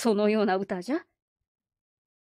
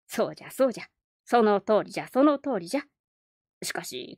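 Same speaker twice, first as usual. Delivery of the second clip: put-on creaky wise old man. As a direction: counsel the boy like a wise elder. Old man counsels boy.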